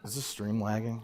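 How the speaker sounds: laggy stream audio; bad connection. Real, not acted. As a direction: voice breaking up online. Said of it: "just the audio's off".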